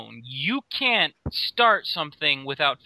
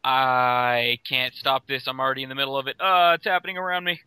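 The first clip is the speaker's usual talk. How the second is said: bad fake British accent. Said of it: "super bad, totally fake accent".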